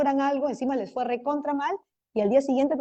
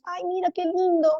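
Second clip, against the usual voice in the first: mock delighted teacher, starting higher; lightly voiced teacher cooing over a pretty worksheet; gushing teacher; 3 semitones higher than usual. Teacher admiring a found worksheet, mock gushing.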